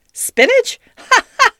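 loud, very high squawk; squawking doctor. A narrator's reading. Doctor hearing of the swallowed pan, squawking. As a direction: squawk the word, then two laughing bursts. Doctor's odd exclamation and laugh.

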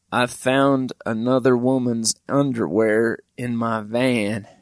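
slow, worn-out voice sagging at the end; dead tired. Retold or imitated. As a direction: say it drained, like she has no energy left. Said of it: "And she said it like that too".

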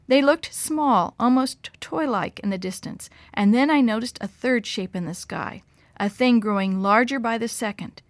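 ordinary delivery

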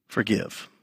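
Forgive very low and quiet; soft low emphasis. Acted. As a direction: drop the word to a hush. Single word dropped low.

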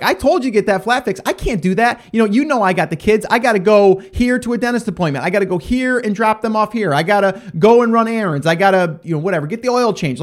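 a lightly voiced fed-up wife; exasperated wife. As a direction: rattle off chores as an irritated wife. Wife voiced scolding husband.

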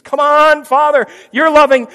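high, loud begging; pleading son. Pretend. Jesus pleads with the Father, high and begging.

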